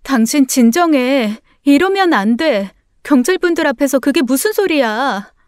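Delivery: flustered remonstrance; alarmed pleading. Acted. Wife restrains raging husband.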